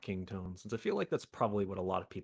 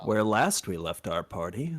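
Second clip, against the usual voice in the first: game master picking up the tale; 4 dB louder than usual. Pretend. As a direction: open the session like a storytelling dungeon master. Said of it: "your D and D voice".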